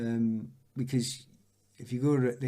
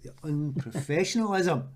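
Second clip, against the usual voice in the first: higher, appalled exclamation; mock outrage; 4 semitones higher, 4 dB louder than usual. Footballer appalled at whiskey before a match, mock outrage. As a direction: protest in exaggerated disbelief.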